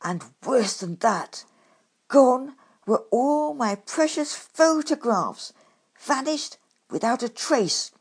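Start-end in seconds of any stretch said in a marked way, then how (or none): 2.1-7.9 dramatic lament. A narrator's reading. Climax of loss.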